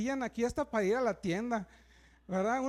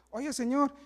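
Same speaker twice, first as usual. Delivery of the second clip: mock woman complaining. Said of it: "la mujer viendo así como que".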